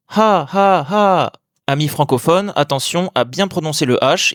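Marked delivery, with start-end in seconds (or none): 0.1-1.3 "ha ha ha" drawn out, each high then falling; three long breathed-H "ha ha ha" syllables, each dropping; Thai falling tone. Shown as a demonstration. Teacher explaining online laughter, Thai-toned long "ha ha ha". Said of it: "ça se prononce".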